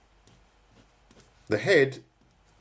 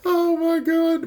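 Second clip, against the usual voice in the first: mock exasperation; 4 dB louder, slower than usual. Real, not acted.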